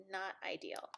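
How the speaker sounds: whispered dry aside. Real, not acted. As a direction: drop to a whisper. Dry aside about mouse pain.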